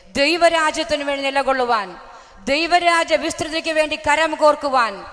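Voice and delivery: loud, rousing sermon call; fervent preaching. Acted. Preacher urges believers to pray for God's kingdom, loud and fervent. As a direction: preach it out to the whole hall.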